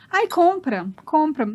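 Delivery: high whiny mock child begging; imitating a nagging child. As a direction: plead like a little kid. Daughter begging.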